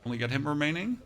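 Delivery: short move callouts with rising ends; combat play-by-play. Real, not acted. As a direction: call each move as you play it, pausing between. Calls out combat moves while playing.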